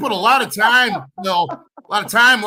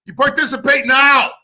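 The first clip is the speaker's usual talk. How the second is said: shouting at fans; 4 semitones higher than usual. Real, not acted. Streamer lecturing his fans on loyalty, shouting. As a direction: drive each clause home, yelling.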